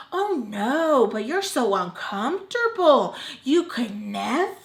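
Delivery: mock the grandma's disdain; grandma's snooty voice. Imitating grandma sneering at the stepfather's house, a bit loud. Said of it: "And that's how she sounds".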